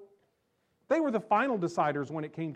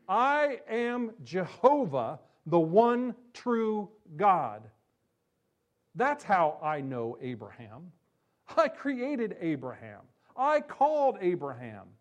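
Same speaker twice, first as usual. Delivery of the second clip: majestic declaration; 4 dB louder, slower than usual. Acted. Preacher voices Jesus as God.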